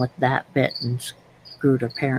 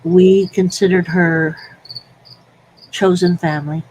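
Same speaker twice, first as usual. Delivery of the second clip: crying on the phone; 4 semitones higher, 4 dB louder than usual. Real, not acted. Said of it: "I can tell that you're starting to cry".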